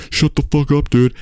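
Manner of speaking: high snapped shut up; a hammed-up high heckle; mock heckler. Imitating a heckler across the theater. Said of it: "someone else would go".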